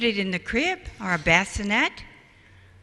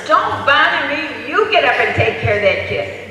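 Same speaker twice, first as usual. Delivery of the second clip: loud husband snapping at his wife; acted irritable retort; fighting back; 5 semitones higher, 5 dB louder than usual. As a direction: refuse crossly, raised voice. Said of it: "they start fighting back and forth".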